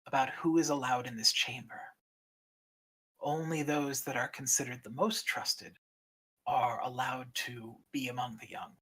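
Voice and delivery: hushed, measured ancient dragon; a stern guardian, softly grave; solemn dragon keeper. Acted. GM voices the Egg Keeper.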